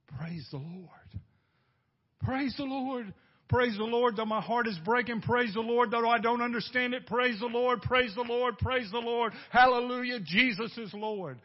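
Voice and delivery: fervent praise. Pretend. Preacher voicing a hurting believer, building fervent praise. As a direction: praise through heartbreak, building to a shout.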